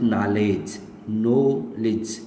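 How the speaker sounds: knowledge said nol-ij, short i; slow, clear knowledge ending in -ij; correct knowledge. Shown as a demonstration. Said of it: "don't pronounce it".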